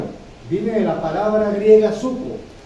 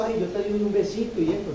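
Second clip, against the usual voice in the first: a lightly voiced, softer cooing sweetheart; mock sweet lover; 4 dB quieter than usual. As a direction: tease it like a syrupy lover, lightly. Preacher mocks shallow romantic love.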